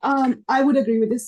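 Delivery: hoarse, failing voice; losing her voice. Real, not acted. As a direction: voice giving out, strained. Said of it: "Sorry, I'm losing my voice".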